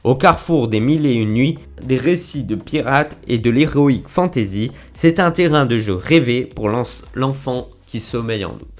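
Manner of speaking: measured storytelling read with emphatic phrase openings; synopsis read aloud. Acted. Vlogger reading the manga's summary to viewers, declaimed blurb reading. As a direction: read it out like a back-cover blurb, each phrase set apart.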